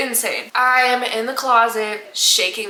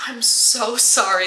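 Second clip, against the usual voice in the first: pleading apology; slower than usual. Retold or imitated. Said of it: "this is what she's looping is".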